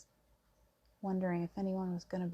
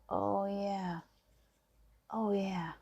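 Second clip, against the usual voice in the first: dawning relief; much slower than usual. Acted. Acting out love coming back in.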